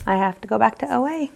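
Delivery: quick, humbled admission; humble. Retold or imitated. Humbled after the wife's question, quick and plain-voiced. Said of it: "In humble, humbleness".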